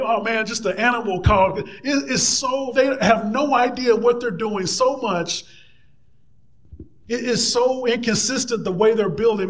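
high-pitched, lightly acted scoffing; mocking scoffer. Tobiah sneering at the builders' stone wall, lightly mocking. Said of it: "He's like".

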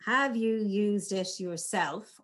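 slow, pausing between "Have you used it yourself?"; measured pauses to show their power. Shown as a demonstration. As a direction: let silence sit between the words. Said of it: "The power of the pause".

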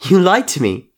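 high, loud hurt accusation; tearful accusation. A narrator's reading. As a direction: cry it out, wounded. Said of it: "tears dripping like hot wax".

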